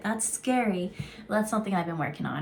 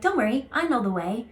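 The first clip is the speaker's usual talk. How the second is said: monkey voice; 3 semitones higher than usual. Retold or imitated. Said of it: "he comes and he's like".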